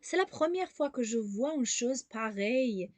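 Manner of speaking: slow, disbelieving exclamation on "C'est la première fois"; exclamatory intonation. Shown as a demonstration. Teacher shows learners the important intonation, slow exclamation falling on "pareille". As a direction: start up on "C'est la première", fall slowly to "pareille". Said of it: "انتوناسیون اینجا خیلی مهمه".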